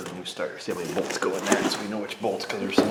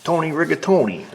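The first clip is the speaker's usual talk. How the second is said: lightly hammed Italian name, high and loud; a hint of Italian caricature; mock Italian guy; 8 semitones higher, 7 dB louder than usual. Mechanic tries another Italian name, light mock-Italian voice. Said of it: "some kind of sweet Italian name".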